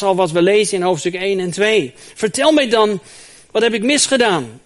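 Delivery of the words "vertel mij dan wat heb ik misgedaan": pleading Job. Acted. Job repeats his plea.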